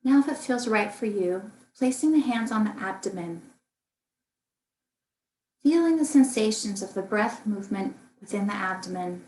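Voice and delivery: calm, unhurried meditation guidance with long pauses; guided meditation. Acted. Meditation teacher guiding listeners through a body scan, calm and spacious. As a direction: lead gently through the body, leaving room to breathe.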